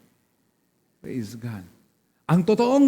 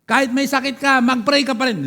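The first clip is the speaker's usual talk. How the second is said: forceful exhortation; 4 semitones higher, 4 dB louder than usual. Real, not acted. Exhorting congregation at full force.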